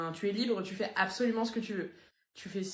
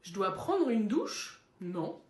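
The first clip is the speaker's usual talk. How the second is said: defensive low denial; 3 semitones lower than usual. Acted. Dog denying it smells.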